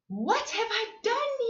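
high dismayed cry; a touch of panic in a giraffe's cry. Acted. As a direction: wail it in dismay. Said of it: "he cried".

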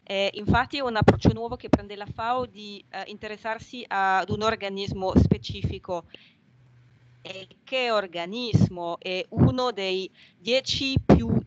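Italian spoken with a French accent. Real, not acted. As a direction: native French speaker talking in Italian. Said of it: "Scusate il mio italiano, io sono francese".

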